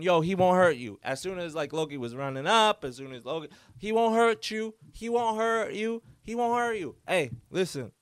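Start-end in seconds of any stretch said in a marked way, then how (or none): 0.0-1.0 aunt yelling. Retold or imitated. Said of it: "my aunt is yelling". 3.8-7.0 higher pitched, repeated frantic call of reassurance; aunt yelling. Retold or imitated. Aunt calling to the scared man, high urgent yell. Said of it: "my aunt is yelling".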